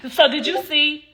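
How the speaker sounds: high, loud mock of a fake actress; mocking bad acting. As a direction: ham it up like a fake tearful actress. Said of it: "and then it was like".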